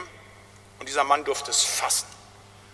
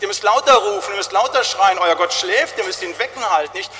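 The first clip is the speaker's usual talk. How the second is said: mocking taunt; 3 semitones higher, 4 dB louder than usual. Elijah mocks the Baal priests.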